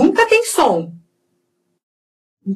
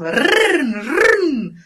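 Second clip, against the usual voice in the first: higher-pitched rolled-R engine revs; motorbike trill; 4 semitones higher than usual. Shown as a demonstration. Teacher shows how to practise, trilled motorbike noise. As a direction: rev like a motorbike with the tongue. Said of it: "como se fosse uma moto".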